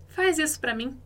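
"Faz" lifted and gentle, softening the request; soft request tune. Shown as a demonstration. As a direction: say "Faz isso pra mim" as a kind ask with a high lift on "Faz". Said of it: "apenas com a entonação da nossa voz".

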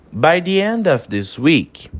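slow, measured "by the end of this week"; polite request intonation. Shown as a demonstration. Teacher finishes a model request to a superior, polite intonation. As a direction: draw out "end of this week" carefully. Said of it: "teve uma mudança de entonação".

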